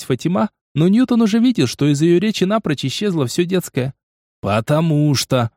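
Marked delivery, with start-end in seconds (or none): 4.4-5.5 curt retort. Acted. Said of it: "отрезал он".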